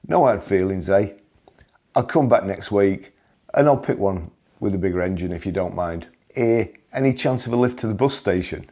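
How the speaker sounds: cheeky Liverpudlian accent with a hint of Brummie; chirpy Liverpudlian thief asking a favour. Still joking to Stuart as the thief, in a Liverpudlian accent. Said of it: "in my best Liverpudlian accent".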